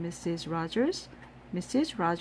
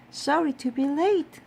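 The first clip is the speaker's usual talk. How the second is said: apologetic guest; 8 semitones higher, 4 dB louder than usual. A narrator's reading. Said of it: "said Miss Alma".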